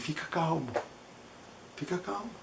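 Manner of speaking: hushed calming words to the patient. Retold or imitated. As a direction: soothe him gently.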